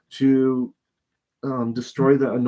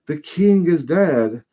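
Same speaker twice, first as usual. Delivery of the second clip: eager messenger; 4 semitones higher, 4 dB louder than usual. Retold or imitated. Messenger brings David news.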